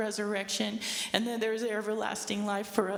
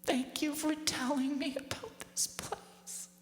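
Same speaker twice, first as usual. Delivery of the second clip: higher, slow, tender thanks; 5 semitones higher, 4 dB quieter than usual. Retold or imitated. Mother thanking her daughter in heaven, tender. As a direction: thank her softly, deeply moved. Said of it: "she puts her hand on my knee and she said".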